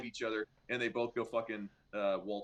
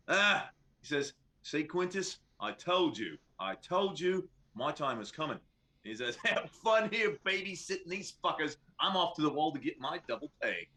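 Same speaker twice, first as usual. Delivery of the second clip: smug guard; 4 semitones higher than usual. Acted.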